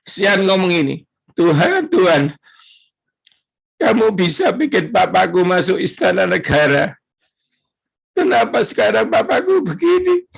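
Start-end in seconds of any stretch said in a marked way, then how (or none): 1.4-10.2 put-on crying child's prayer. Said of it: "Sean itu sampai nangis".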